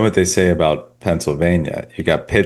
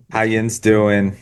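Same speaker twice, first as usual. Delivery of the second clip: slow, drawn-out Pennsylvania greeting; imitated western Pennsylvania twang; Pennsylvania accent; slower than usual. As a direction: put on a Pittsburgh, Pennsylvania accent. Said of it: "No, the Pennsylvania".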